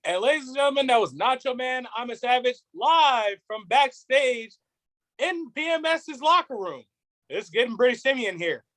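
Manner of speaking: lightly played backstage reporter; wrestling announcer. Reporter signing off live from the locker room, announcer voice. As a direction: hand back to the commentary desk, mock-broadcast style.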